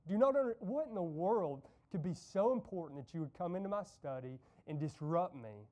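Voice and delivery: half-acted angry outburst at a child; irritated dad shouting, in a preacher's retelling. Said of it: "starts shouting at the boy".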